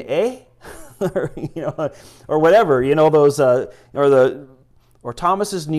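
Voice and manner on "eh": high rising Canadian "eh?"; mock Canadian "eh". Preacher teasing about regional accents, mock Canadian. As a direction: toss in a Canadian-style tag question. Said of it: "your Canadian".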